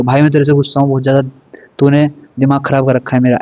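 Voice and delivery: a hammed-up angry outburst at a friend; half-hearted yell of being fed up; mild mock shout of anger. Shown as a demonstration. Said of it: "लेकिन अगर वो चिल्ला के बोलेगा".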